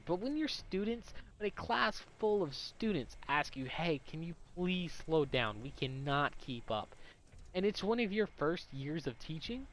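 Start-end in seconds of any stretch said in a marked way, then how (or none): 3.6-6.9 slow, word-by-word request; emphatic slow plea. Retold or imitated. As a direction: spell it out slowly, as exasperated students. Students' plea to teacher, acted.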